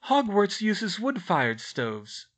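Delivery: high, slow character explanation; explaining. A narrator's reading. Girl to her parents about stoves, explaining. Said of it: "Hermione explained".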